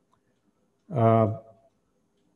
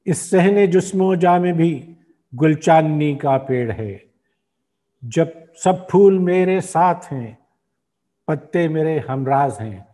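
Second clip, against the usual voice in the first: measured Urdu verse, line by line with pauses; poem recitation; 3 semitones higher, slower than usual. Acted. Host reciting a poet's symbolic nazm, measured recitation. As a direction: recite the nazm slowly and rhythmically.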